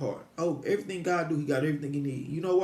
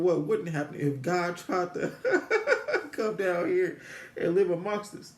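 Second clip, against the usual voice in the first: laughing; 3 semitones higher, slower than usual. Real, not acted. Laughing at his own idea.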